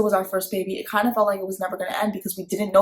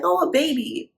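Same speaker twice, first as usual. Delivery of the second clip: put-on excited toddler; 9 semitones higher than usual. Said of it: "was excited to see the new baby".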